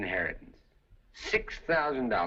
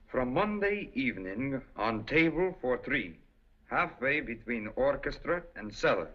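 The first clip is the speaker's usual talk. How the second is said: put-on Russian accent; 2 semitones higher than usual. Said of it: "With a Russian accent".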